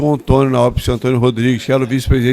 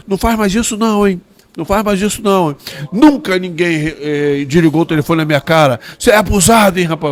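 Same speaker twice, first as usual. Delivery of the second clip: a higher mock scolding, quick at first; imitating doctor Eurico; 4 semitones higher than usual. Eurico warning Nelson never to hang up, mock stern. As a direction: wag the finger like an offended boss. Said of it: "Ele falou".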